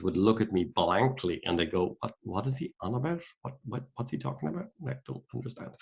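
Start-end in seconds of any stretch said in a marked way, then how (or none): 2.0-5.7 baffled Kiwi colleagues. Retold or imitated.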